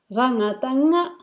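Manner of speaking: rangatanga as one run, rising at the end; spelling recitation. Shown as a demonstration. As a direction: repeat the drill rangatanga, last nga lifted. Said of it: "then you pronounce the whole syllable".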